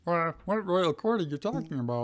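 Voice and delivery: high, puzzled Drew read again; puzzled Drew retake. Acted. Drew re-asking Ash about the royal court, puzzled. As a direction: redo the line with the same baffled lift.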